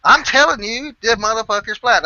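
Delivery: high, loud exasperated insisting; mock argument. Ed arguing he's being messed with, high and loud. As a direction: argue it like he won't believe you. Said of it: "almost an argument like that".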